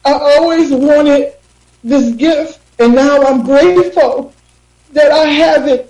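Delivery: holding back tears while grateful; thankful through lingering tears; still teary. Real, not acted. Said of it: "I don't wanna mess up my makeup".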